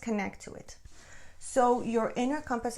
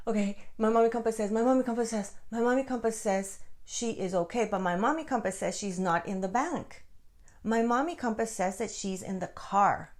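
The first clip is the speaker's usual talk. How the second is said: urgent relay; 2 semitones higher than usual. Retold or imitated. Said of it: "I was just talking it out loud".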